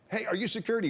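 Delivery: high, loud yell through the door; retold yell. Teammate yelling at the security guard through the door, loud and high. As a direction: shout it like a panicked teammate. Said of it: "Jason Ben yells".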